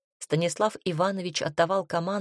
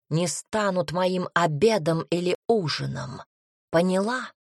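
menacing threat; slower than usual. Acted. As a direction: threaten her slowly. Shadow threatens the heroine.

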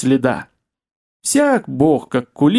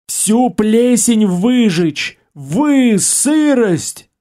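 clicking alien voice; 7 semitones higher, much slower than usual. Acted. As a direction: roar it like a rising blaze. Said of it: "крепчая с каждым мгновением".

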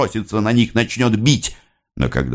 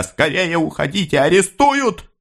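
a high, rising urgent call; urgent warning; 11 semitones higher than usual. A narrator's reading. Sofia tells them to leave before arrests, high urgent call. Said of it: "говоря".

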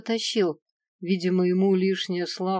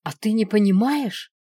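loud, indignant retort; exasperated snap, louder; angry outburst; 4 semitones higher, 7 dB louder than usual. A narrator's reading. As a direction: explode into an angry question. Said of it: "Взорвалась я со злостью".

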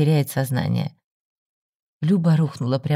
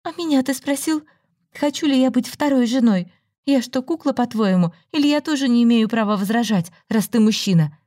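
high, bitter questioning; indignant demand; 9 semitones higher than usual. A narrator's reading. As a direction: challenge him with each question. Indignant challenge to Ruslan.

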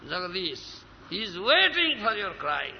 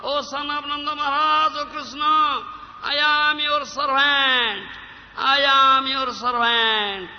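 louder pleading prayer that repeats its words; tearful prayer; 3 semitones higher, 5 dB louder than usual. Acted. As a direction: beg Krishna, pressing on "drowning". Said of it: "You will cry and say this".

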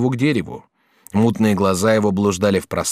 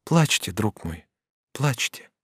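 softer, slower gentle urging; tender comfort; 5 dB quieter, slower than usual. A narrator's reading. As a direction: soothe a grieving friend. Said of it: "нежно сказала".

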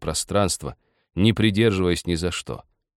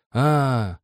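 drawn-out higher "ah" of understanding; relieved "ah"; 6 semitones higher than usual. A narrator's reading. Nikita finally understands the old man, relieved "aah". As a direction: let out relief as it dawns. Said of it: "облегчённо сказал Никита".

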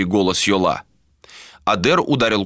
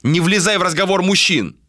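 raised, higher, angry voice; angry rebuke; 11 semitones higher than usual. A narrator's reading. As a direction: scold her harshly. Ader furious at Malika. (гневный окрик Адера)

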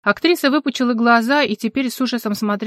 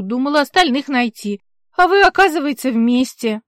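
a bit higher, louder, garrulous; hint of a brassy older actress; lightly voiced brash older woman; 4 semitones higher, 4 dB louder than usual. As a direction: chatter the tale like a feisty old actress. Alla's voice again.

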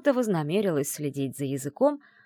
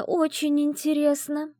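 "очень" drawn out slow and higher, teasing; 11 semitones higher, 4 dB louder, slower than usual. Acted. Friend teases the heroine, drawing out "очень". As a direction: stretch "очень" out playfully, slowly. Teasing curiosity about the fiancé.

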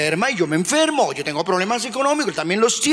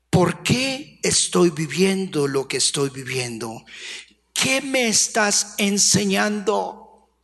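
reflective prayer; 4 semitones lower than usual. Retold or imitated. Mature believer questioning God in prayer, low and slow. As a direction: ask God slowly, with calm humility.

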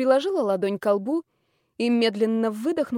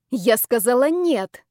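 slow, louder, each word rapped out; clipped firm refusal; 5 dB louder, slower than usual. Acted. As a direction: hammer out every syllable. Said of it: "отчеканила я".

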